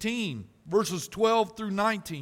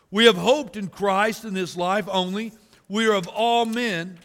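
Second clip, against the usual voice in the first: preached verse reading; 4 dB louder than usual. Acted. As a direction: proclaim it louder, rising at the end. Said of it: "Let me say verse nineteen again".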